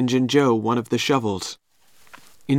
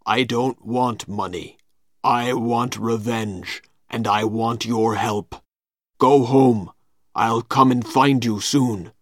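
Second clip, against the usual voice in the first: menacing Injun Joe. Acted. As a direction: lean on revenge, coldly. Injun Joe wants revenge.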